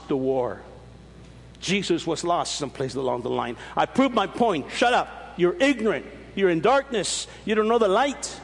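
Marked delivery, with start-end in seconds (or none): 4.7-8.4 mock harsh put-down. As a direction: slam them like the angry young Christian. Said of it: "you see how I came out?".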